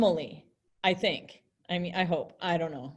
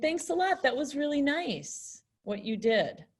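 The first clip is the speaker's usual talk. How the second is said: higher, sincere thanks; grateful; 4 semitones higher than usual. Shown as a demonstration. Teacher voicing the grateful woman for students. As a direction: sound truly thankful. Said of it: "Whereas she's saying".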